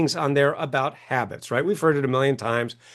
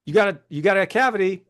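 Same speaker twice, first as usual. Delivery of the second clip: brusque dentist; 5 semitones higher than usual. Retold or imitated. Mocking a dentist who dismisses his patient, brusque. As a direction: toss it off like a bored dentist, slowing on next. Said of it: "he goes".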